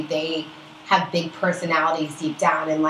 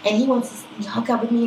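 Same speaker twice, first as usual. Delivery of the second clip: higher mock gushing that settles gradually; imitated smitten friend; 4 semitones higher, faster than usual. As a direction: gush on as a friend boasting of an admirer. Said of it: "she's like".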